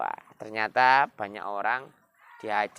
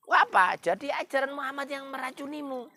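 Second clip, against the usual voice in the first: furious shout. Acted. Umar shouts at his sister in fury. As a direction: roar it out in fury. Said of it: "sambil marah".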